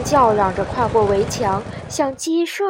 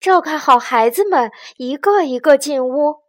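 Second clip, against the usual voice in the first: raised, firm instructions; loud, higher organizing voice; shout; 4 semitones higher, 6 dB louder than usual. A narrator's reading. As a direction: call out orders to everyone. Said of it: "大喊道".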